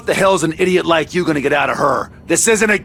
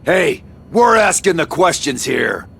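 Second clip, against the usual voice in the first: gruff shouted threat; overacted anime dub; 7 semitones lower than usual. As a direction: bark it down at the prisoner. Interrogator yells at prisoner.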